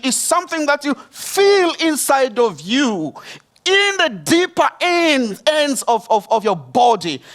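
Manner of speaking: high-pitched, insistent preacher's exhortation; impassioned preaching. Real, not acted. Pastor urging the congregation to act on compassion, impassioned preaching. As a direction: preach it with urgency, leaning on key words.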